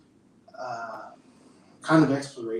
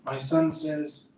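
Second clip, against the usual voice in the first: poetry reading; 2 semitones higher than usual. Acted. Reads his poem aloud.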